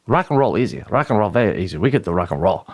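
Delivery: lightly accented impression of an Asian woman coach; a hint of an Asian teacher's accent; imitated Asian coach. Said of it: "that's just how she talks".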